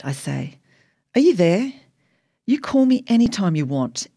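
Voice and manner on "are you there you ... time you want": raised voice, higher and insistent; calling to Dad. A narrator's reading. Daughter checks Dad is still on the line, raised insistent voice. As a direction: reach down the phone line to Dad.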